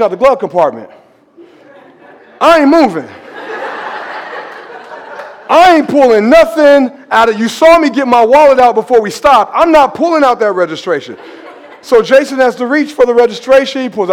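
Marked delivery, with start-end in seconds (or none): 2.4-11.2 high, loud, laughing stubborn refusal. Retold or imitated. Preacher refusing to reach for the registration, laughing loudly. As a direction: dig in and refuse, cracking up.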